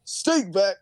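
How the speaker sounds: tongue slip. Acted. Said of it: "I mean, out".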